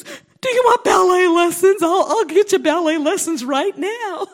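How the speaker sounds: high, loud, eager voice of a man offering a gift; hammed-up eager offer, laughing at the end; excited offer. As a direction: burst out with the offer, thrilled. Man offering ballet lessons, retold.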